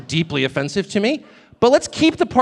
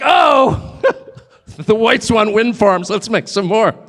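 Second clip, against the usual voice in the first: mocking Chinese; 3 semitones higher, 3 dB louder, slower than usual. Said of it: "They're like".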